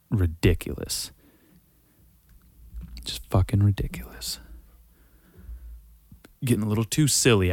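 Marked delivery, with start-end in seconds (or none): 3.0-4.4 whispered, disgusted aside; exasperated whisper. Real, not acted. Shaking his head at the outraged posters, in a whisper. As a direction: breathe it out in disbelief. Fed-up aside after rant.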